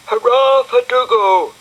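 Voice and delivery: loud high cheering shout; loud high hurrah; crowd cheer. Acted. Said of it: "shouted a huge crowd".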